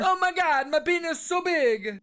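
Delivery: mock amazement; hammed-up amazement. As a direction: gush like a paid actor in the crowd. Patient amazed.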